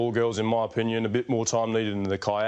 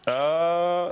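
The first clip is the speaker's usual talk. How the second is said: Murray's uh; 5 semitones higher than usual. Retold or imitated. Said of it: "lots of different types".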